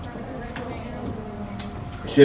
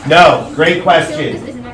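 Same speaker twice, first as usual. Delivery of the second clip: drawn-out praise; 5 semitones higher, 5 dB louder, much slower than usual. Real, not acted. Teacher praises student question.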